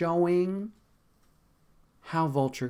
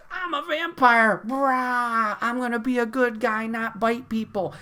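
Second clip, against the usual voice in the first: higher, louder put-on hero voice; mock Morbius; 5 semitones higher, 4 dB louder than usual. Mocking Morbius's good-guy vampire vow. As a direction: ham up a goody vampire. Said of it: "a dude who went".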